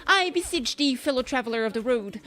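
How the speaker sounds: lightly voiced noble knight in archaic speech; a hint of a chivalrous Spanish hero; old-fashioned knight. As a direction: play the gallant old-world knight. Knight addressing villager.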